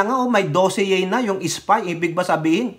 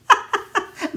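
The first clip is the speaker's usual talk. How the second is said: burst of laughter. Real, not acted. Laughs after singing.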